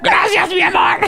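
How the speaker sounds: high, wailing fake sob; hammed-up teary thanks; mock crying.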